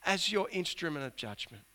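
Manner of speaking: a prophet pressing God for answers; voicing Habakkuk's complaint. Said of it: "what Habakkuk is saying here is".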